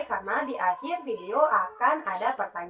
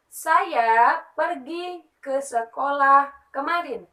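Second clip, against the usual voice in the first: slow, louder, clear reading of "Saya pergi ke sekolah kemarin"; slow example sentence; 3 semitones higher, 5 dB louder, slower than usual. Shown as a demonstration. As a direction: read it out slowly as one sentence.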